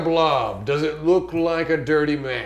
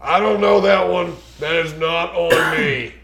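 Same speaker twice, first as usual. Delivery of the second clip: raised, defensive shout back; loud protest; 2 semitones higher, 5 dB louder than usual. Acted. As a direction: shout the denial back to the captain. Crewman protests to captain.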